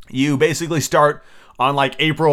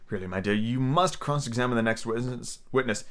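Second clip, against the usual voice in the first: undertone; 6 dB quieter than usual. Acted. King murmurs to the queen, softer. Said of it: "he added in an undertone".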